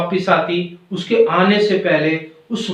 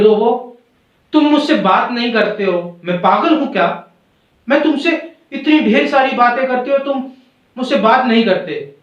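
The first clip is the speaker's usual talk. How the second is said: higher-pitched, mildly cross complaint; storybook bird in a huff; angry scolding; 5 semitones higher than usual. Acted. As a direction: scold a friend, acted hurt and cross. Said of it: "गुस्सा हो जाती है".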